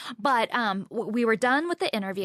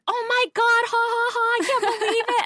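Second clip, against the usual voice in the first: much higher, laughing through the words; mocking laughter; 12 semitones higher, 4 dB louder than usual. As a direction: tease your buddy while cracking up. Guy laughing at his friend.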